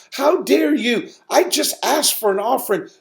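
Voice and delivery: high-pitched wounded reproach to the congregation; hurt indignation. Retold or imitated. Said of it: "I got emotional about it".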